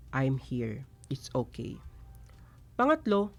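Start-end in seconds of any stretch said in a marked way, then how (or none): 0.1-1.8 quiet, gentle reassurance; soft reassuring tone. Shown as a demonstration. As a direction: comfort a child in meltdown, softly. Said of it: "soft tone". (malumanay na pag-aalo)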